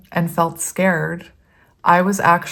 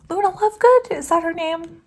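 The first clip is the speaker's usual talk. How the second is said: put-on high, playful British accent, asking; 11 semitones higher than usual. Reader musing about Harry Potter names in British accent. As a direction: put on a British lilt for the question. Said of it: "I was speaking in a British accent".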